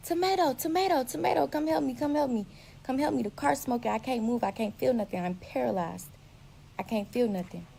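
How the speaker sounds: high, loud, frantic calls for help; retold yell for help. Crash victim yelling to his friend for help. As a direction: yell the name over and over, pleading. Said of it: "I'm yelling out for him to come help me".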